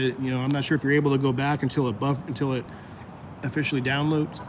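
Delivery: talking through the hiccups. Real, not acted. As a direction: speak while hiccupping. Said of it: "Sorry, I got the hiccups".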